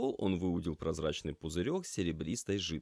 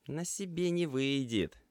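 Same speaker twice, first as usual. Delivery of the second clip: буркнул; 9 semitones higher than usual. A narrator's reading. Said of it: "буркнул кот".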